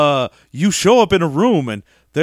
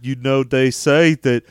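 Forrest Gump; 3 semitones lower, slower than usual. Acted. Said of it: "Give me Forrest Gump".

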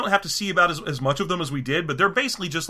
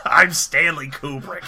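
slow, self-important announcement; Kubrick; much slower than usual. Acted. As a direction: draw the name out with mock grandeur. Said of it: "best Stanley Kubrick impression ever".

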